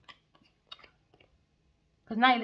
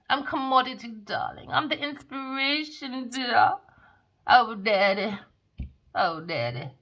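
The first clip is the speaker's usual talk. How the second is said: lightly voiced spoilt gold digger, louder; mock diva; 4 semitones higher, 5 dB louder than usual. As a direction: purr it like a pampered diva, half-mocking. Voicing Genevieve as a gold digger.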